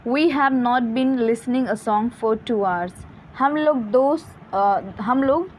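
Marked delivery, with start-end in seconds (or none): 0.1-2.9 each word read out very slowly; slow example read. Shown as a demonstration. Teacher to students, reading the example very slowly. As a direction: spell the sentence out slowly for the class. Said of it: "reading example again".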